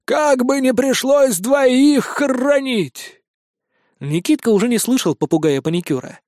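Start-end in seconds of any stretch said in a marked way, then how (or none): 0.0-3.2 high, slow mournful parrot; sorrowful parrot sigh. A narrator's reading. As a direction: lament to himself. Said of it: "горестно вздохнул". (горестно вздыхающий попугай, медленно)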